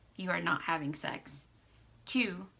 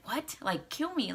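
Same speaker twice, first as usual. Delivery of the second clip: sharp high "What?" then disbelief; incredulous; 5 semitones higher than usual. Retold or imitated. Man retelling a threat, incredulous and shocked. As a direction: throw it back in shock.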